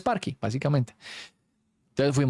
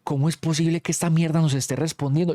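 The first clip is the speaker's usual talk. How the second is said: panicked exclamation; 4 semitones higher than usual. Retold or imitated.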